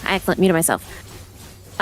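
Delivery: usual speaking voice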